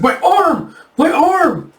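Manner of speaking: high, loud cry of pain; acted shriek of a wounded bandit; agonized scream. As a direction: scream as if maimed. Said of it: "he screams as he kinda clutches at it".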